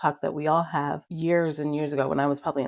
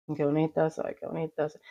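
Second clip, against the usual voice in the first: no energy. Shown as a demonstration. First day reciting to the mirror, no energy. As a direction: say it as if you don't mean it. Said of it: "Like this, no energy, not, like, didn't mean anything".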